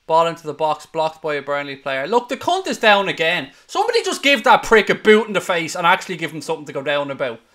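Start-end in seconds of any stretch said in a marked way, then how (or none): 2.1-7.4 louder, fast furious rant at a time-waster; angry rant. Real, not acted. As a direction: spit it out in a fast rage. Fan raging at time-wasting player.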